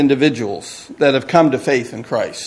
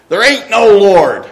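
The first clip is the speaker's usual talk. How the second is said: loud, higher defiant yell; angry shout; 5 semitones higher, 6 dB louder than usual. Acted. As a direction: shout it back at the believer next door. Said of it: "he would shout".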